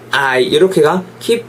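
ordinary delivery

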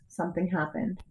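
usual speaking voice

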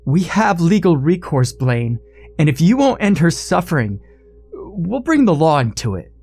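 demanding. A narrator's reading. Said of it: "demanded Christine's mother".

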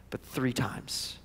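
slow whispered emphasis; hushed dramatic reveal. Acted. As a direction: drop to a whisper, slowly. Climax of denials, hushed.

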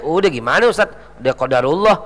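low, resigned excuse, lightly acted; lightly voiced divorced man. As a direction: imitate a husband shrugging off blame. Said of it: "laki-laki yang berkata".

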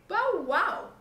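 high, loud storybook bow-wow; dog's bark. A narrator's reading. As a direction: bark it out like a dog. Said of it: "said the dog".

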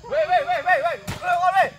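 loud insisting. Acted. Father insists on going home.

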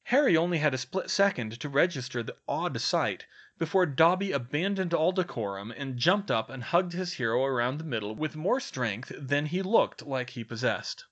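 usual speaking voice

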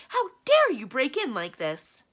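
loud, high and drawn-out indignation; outraged scream. A narrator's reading. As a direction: shriek at the intruders, stretching the words. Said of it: "screamed the enchantress".

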